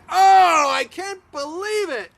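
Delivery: loud, high-pitched royal outburst; outraged exclamation. Acted. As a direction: burst out in scandalised disbelief, loudest on the first word. King enraged finding Haman with wife.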